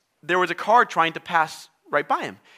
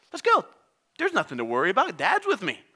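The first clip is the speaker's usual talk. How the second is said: put-on confident kid; 3 semitones higher than usual. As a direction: play a little boy suddenly brave. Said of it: "How's the kid gonna feel".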